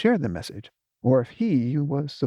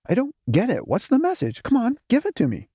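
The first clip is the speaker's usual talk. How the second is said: roaring; 11 semitones higher, faster than usual. Acted. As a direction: roar it at her, impatient. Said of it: "he roared".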